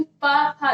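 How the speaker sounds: पा, फा as emphatic lip sounds; sound demonstration. Shown as a demonstration. Teacher showing lip sounds, पा, फा sounded out. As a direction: pop पा, फा off the lips. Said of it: "ये होंठ से होता है".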